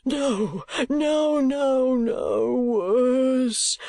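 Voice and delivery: high frantic repeated denials; panicked old miser. Acted. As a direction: wail it out in terror. Gride in panic.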